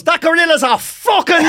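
high, loud, cracking with laughter; can barely get it out for laughing; laughing quote. Retold or imitated. Old man quoted through laughter.

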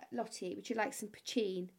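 light mock Irish accent; terrible Irish accent. Irish friend offers Lottie a drink, light Irish accent. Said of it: "my terrible Irish accent".

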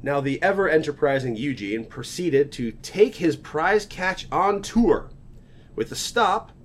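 lightly Southern storyteller voice; a touch of Southern accent in a tall-tale read. Pretend. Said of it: "I don't know why I keep going southern with this".

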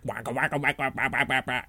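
soft quacky duck impression; lightly done cartoon duck. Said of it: "a weird duck voice".

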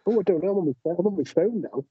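distant, echoey phone mic; like talking from a cave; sounding far away. Real, not acted. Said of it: "You sound like you're in a cave".

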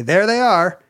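a light imitation of a proud dad. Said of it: "his dad would always point out the clamshells and say".

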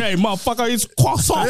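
mock French correction. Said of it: "pronouncing croissant wrong".

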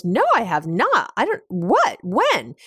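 mock adamant protest, rising into puzzled questions; adamant retold denial. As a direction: imitate an insistent denial, pitch jumping on the stressed words. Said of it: "he was really adamant".

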